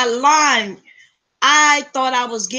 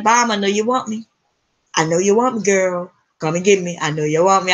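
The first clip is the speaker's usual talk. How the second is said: lightly voiced seductive shoes, lower pitch; shoes calling out; 3 semitones lower than usual. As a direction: coax her in as the talking shoes. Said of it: "They were like".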